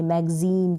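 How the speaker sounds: "मैगज़ीन" ending in a long ee; long final vowel. Shown as a demonstration. Teacher repeating the correct form, "मैगज़ीन" with long ee. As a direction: hold the ee in "मैगज़ीन". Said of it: "ई का sound long produce".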